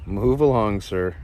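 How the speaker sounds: mock polite loud shoo; loud shoo again. Real, not acted. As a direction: call it loud to shoo the snake. Shooing a snake away.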